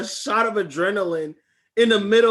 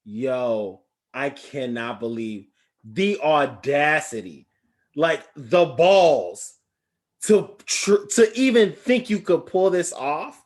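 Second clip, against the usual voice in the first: stunned disbelief; 3 semitones lower, slower than usual. Retold or imitated. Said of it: "So I was like".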